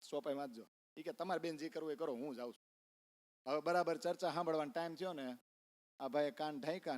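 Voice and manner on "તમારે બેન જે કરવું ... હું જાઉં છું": fed-up doctor. Retold or imitated. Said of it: "વૈદ કંટાળીને વયો ગયો".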